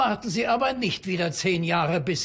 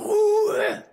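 stern shout; 13 semitones higher, 4 dB louder than usual. Acted. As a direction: snap loudly for silence. Librarian silencing noisy visitors.

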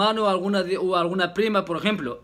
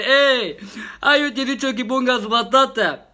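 raised, higher angry complaint with a laugh breaking in; angry cousin; 5 semitones higher than usual. Retold or imitated. Cousin scolding market seller, mock angry. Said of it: "mi primo se enfadó y dice".

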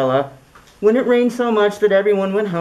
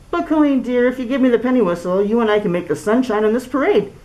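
pleading; 2 semitones higher than usual. Acted. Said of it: "said Mister Biv pleadingly".

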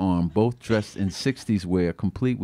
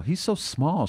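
declaring; 7 semitones higher, slower than usual. Acted. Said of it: "she declared".

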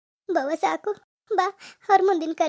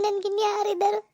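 crying; 3 semitones higher than usual. Acted. Daughter crying over her dead mother.

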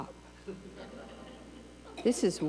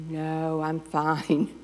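martyr mother; 3 semitones lower, much slower than usual. Retold or imitated. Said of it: "perfect codependent".

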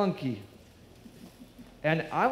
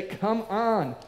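urging call; 6 semitones higher than usual. Pretend. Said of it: "a place to say".

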